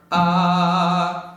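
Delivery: clean ah without fry; clean closed onset. Shown as a demonstration. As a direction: start the tone clean. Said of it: "until you can just start".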